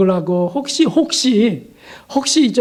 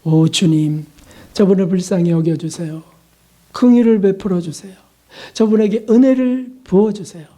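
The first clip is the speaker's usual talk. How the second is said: gentle prayer; 2 semitones lower than usual. Shown as a demonstration. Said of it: "이렇게 할 수 있어요". (조용히 낮춰 드리는 중보 기도)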